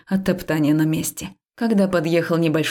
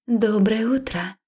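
friendly greeting; 5 semitones higher, slower than usual. A narrator's reading. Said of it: "приветствовала его милая девушка".

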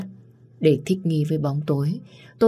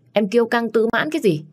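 contemptuous taunt; 7 semitones higher than usual. Acted. Phong mocking blind girl.

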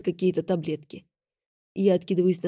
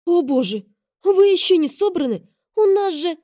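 much higher, louder alarmed gasp; 10 semitones higher, 7 dB louder than usual. A narrator's reading. Assistant alarmed her boss isn't ready. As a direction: panic over the schedule.

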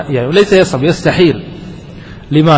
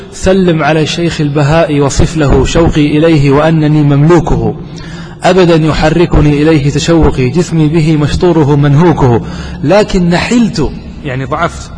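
poem recitation. Acted. Teacher recites a poet's verse to the class, declaiming.

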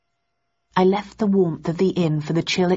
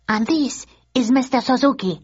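higher, polite tour guide voice; announced; 7 semitones higher than usual. Acted. Mrs Nakajima introducing herself to Thursday, higher and formal. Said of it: "announced the woman".

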